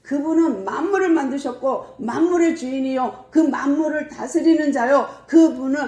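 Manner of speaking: high, emphatic preacher's declaration; re-enacted impassioned public sermon; Paul proclaiming. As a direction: proclaim it to the crowd, pitch held high. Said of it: "하고 선포를 했어요".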